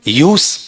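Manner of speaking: "यूज" as YOOS with voiceless s; noun pronunciation. Shown as a demonstration. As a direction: say "यूज" firmly, ending on s. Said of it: "noun में क्या पढ़ते हैं".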